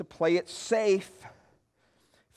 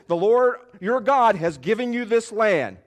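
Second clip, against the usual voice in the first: raised, emphatic declaration; proclaiming as Moses; 4 semitones higher, 6 dB louder than usual. Acted. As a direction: declare it to a crowd. Preacher quoting Moses' declaration.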